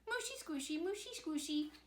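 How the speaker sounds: high little piggy, loud on nope; piggy's high reply. A narrator's reading. To her mummy, the piggy refuses in a high voice. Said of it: "But the piggy answered".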